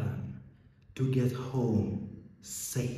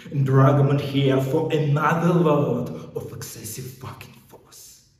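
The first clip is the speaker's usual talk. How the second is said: raised, louder policeman's threat; angry threat; 4 semitones higher, 5 dB louder than usual. Acted. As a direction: push it up hard and forceful. Policeman threatens excessive force.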